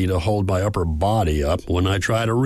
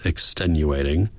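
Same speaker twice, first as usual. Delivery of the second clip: "extenuating" set apart in mock quotes; air quotes on extenuating. A narrator's reading. Nurse making a point of "extenuating" in air quotes. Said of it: "making air quotes with her fingers as she says".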